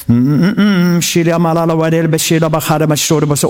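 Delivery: fast mock prayer in tongues, motor running; fast hummed tongues from a wife at the sink; imitating wife speaking in tongues. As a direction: rattle off tongues like his praying wife. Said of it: "begynner hun bare å be i tunga".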